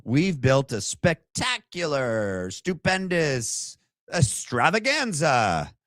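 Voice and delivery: slow, high carnival barker sell; mock showman pitch. Vlogger parodying the memorial as a slow high sales pitch. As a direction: hype it like a sideshow barker. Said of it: "The memorial".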